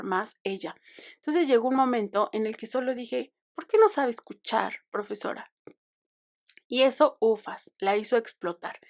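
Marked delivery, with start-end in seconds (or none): 3.5-5.5 reproachful question. Retold or imitated. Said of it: "lo dije en ese tono".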